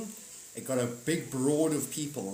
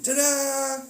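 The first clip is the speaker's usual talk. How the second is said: ta-da; 13 semitones higher, 8 dB louder than usual. Acted. Birth reveal, acted flourish.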